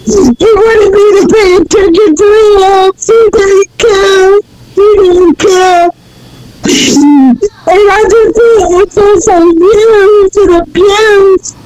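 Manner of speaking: real tearful hurt, slowing down; crying. Real, not acted. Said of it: "I'm sorry for crying".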